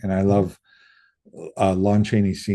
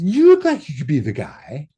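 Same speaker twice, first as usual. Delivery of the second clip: lightly imitated director, intrigued; mock Quentin; 6 semitones higher, 4 dB louder than usual. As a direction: size him up out loud. Quentin sizing up the speaker.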